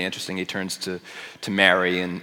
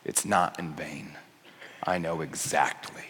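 hushed reassurance; 7 semitones lower, 12 dB quieter than usual. Retold or imitated. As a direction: reassure them almost under the breath. Quiet close of Jesus' words.

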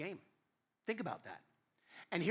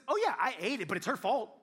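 louder, breezy excuse; offhand blame; 3 semitones higher, 5 dB louder than usual. Acted. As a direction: shrug it off onto her. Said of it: "What I love is he says".

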